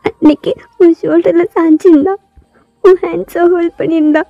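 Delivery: high, hurt accusation; upset girl confronting her cousin; jealous outburst. Acted. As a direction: accuse him through tears. Girl lists what she saw.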